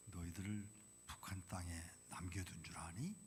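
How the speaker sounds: 속삭이는 하나님의 물음; 나지막이 속삭이듯 되묻기; whisper. Retold or imitated. God's reply retold softly. (속삭이며 되묻는 하나님)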